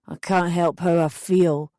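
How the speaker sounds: put-on drunk, helpless plea; mildly boozy self-excuse; drunken helplessness. A narrator's reading. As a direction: plead it like a drunk man. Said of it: "he was plastered".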